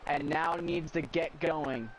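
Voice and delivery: metallic, robotic distorted voice; robotic mic. Real, not acted. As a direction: sound like a glitching robot mic. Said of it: "Your mic is robotic-y right now".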